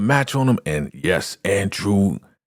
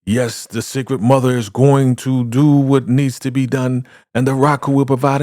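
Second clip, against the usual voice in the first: proclaiming; 6 semitones higher than usual. Retold or imitated. Cult leader proclaims the sacrifice.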